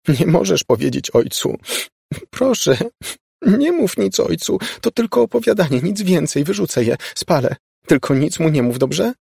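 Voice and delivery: high, pleading voice; high desperate pleading; tearful pleading. A narrator's reading. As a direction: beg her not to tell, close to tears. Laura pleading through tears.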